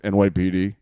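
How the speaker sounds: loud mock cop at the door; forceful, projected retold announcement; police announcement. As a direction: call out like police knocking. Police calling through the door.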